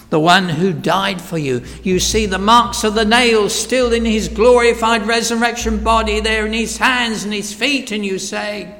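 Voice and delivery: normal talking voice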